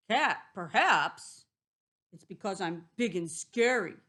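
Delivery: wolf voice. Acted.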